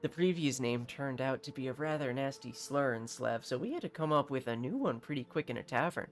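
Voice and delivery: a lightly voiced haughty captain; hint of a pompous nobleman. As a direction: play a self-important mercenary captain, lightly. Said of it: "what he sounds like".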